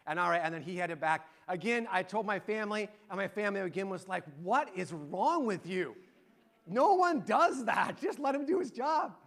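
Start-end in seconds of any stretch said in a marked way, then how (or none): 4.4-9.2 slow, stressed scolding, climbing high; mock exasperation. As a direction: imitate an appalled family telling you off. Family's exasperated reaction acted out.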